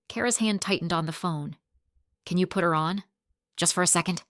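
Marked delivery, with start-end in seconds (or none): 2.3-4.2 soothing. Acted. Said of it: "She kept her voice level, soothing".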